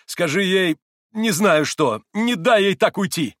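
high, loud, impetuous cry; urgent plea. A narrator's reading. Mitya begs his brother to stop her, urgently. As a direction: beg loudly, pitch climbing. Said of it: "стремительно обратился к брату Митя".

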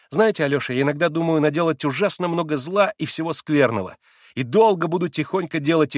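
put-on a wilful girl teasing; lightly voiced excitable girl; Liza's girlish voice. A narrator's reading. Liza's voice in dialogue.

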